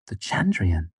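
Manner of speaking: a doubting, disbelieving question; incredulous. A narrator's reading. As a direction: ask it like she can't believe him. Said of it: "she said incredulously".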